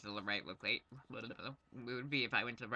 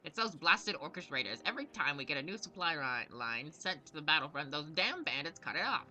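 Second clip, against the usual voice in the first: lightly voiced exasperated gnome commander; a hint of a harried military quartermaster; aggrieved gnome knight; 4 semitones higher than usual. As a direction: grumble about the raiders as the proud knight. Gnome knight complains of supply raids.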